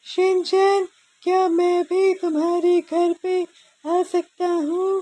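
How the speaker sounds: Bochan voice. Acted. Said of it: "the voice of Bochan".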